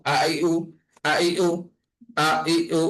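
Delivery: আ, ই, উ struck with an abrupt glottal attack; firm hamza stop before আ, ই, উ; hard glottal push. Shown as a demonstration. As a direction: give every vowel in আ, ই, উ a firm push. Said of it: "একদম ধাক্কা খাবে".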